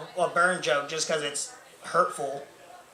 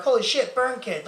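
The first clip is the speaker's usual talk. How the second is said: higher-pitched imitated gawking; mock astonishment; 6 semitones higher than usual. People fixate on his burns, mock astonishment. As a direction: exclaim like an amazed gawker.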